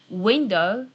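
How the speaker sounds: "window" drawn out in Japanese rhythm; Japanese-style pronunciation. Shown as a demonstration. Teacher showing learners the Japanese version, "window" in slow Japanese rhythm. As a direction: say "window" slowly, syllable by syllable.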